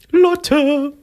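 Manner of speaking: high, laughing call of her name. Real, not acted. Calling into a failing line.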